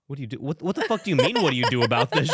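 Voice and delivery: mock outraged mom. Mom's outraged reply retold.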